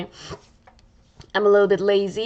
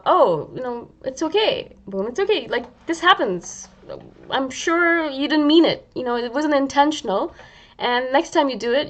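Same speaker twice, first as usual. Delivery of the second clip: kind friend voice; 3 semitones higher than usual. Retold or imitated. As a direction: soothe yourself as a kind friend would. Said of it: "the tone changes".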